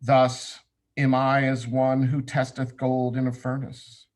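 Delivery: measured, declamatory recitation with deliberate pauses; solemn scripture reading. Acted. Class leader reads the meditation on Samekh to students, solemnly declaimed. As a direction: intone it like holy writ, each phrase firm then falling.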